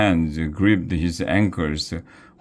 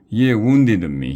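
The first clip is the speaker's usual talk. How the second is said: indignant cry; 4 semitones higher, 5 dB louder than usual. Acted. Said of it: "he cried".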